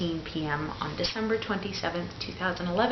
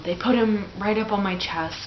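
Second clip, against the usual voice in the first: emotional; 3 semitones higher, 4 dB louder than usual. Real, not acted. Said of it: "I still get emotional".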